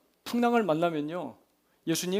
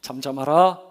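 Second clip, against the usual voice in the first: louder, low-pitched call; rebuking command; 3 semitones lower, 8 dB louder than usual. Acted. Jesus rebuking the wind and sea, firm loud command. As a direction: command the storm with authority. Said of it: "꾸짖으시며 이렇게 외치십니다".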